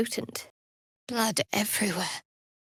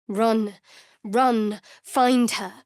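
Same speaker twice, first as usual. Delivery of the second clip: urgent command; 5 dB louder, much slower than usual. Acted. Urgent voice in head.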